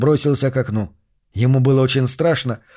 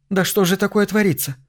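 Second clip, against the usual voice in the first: high, frightened cry; panicked high question; alarmed; 7 semitones higher than usual. A narrator's reading. Mother alarmed after son flees.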